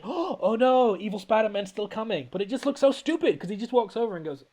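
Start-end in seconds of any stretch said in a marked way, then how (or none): 0.0-2.3 mock-dramatic gasp, higher-pitched dismay; big dramatic. Mocking the film's climactic moment, big dramatic. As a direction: play up the alarm as hammy movie melodrama. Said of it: "big dramatic".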